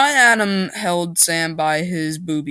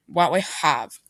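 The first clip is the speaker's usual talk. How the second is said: whisper. Acted. Aside said under breath.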